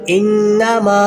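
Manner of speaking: इन्नमा with the final maa held long; lengthened meem. Shown as a demonstration. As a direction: recite इन्नमा, stretching maa. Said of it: "मीम को लंबा करेंगे". (इन्नमा का 'मा' लंबा खींचें)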